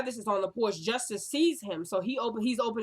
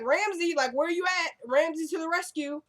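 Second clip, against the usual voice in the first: mock desperate call; 7 semitones higher than usual. Pleading for hero to arrive.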